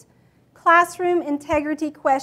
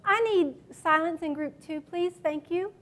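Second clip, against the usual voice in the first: gentle request; 4 dB quieter than usual. Shown as a demonstration. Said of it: "It's an invitation".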